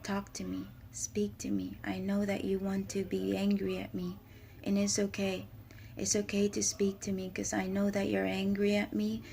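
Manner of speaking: gentle whispered voice of Jesus; soft whisper of reassurance. Retold or imitated. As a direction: hush it like a comforting voice. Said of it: "he tells me".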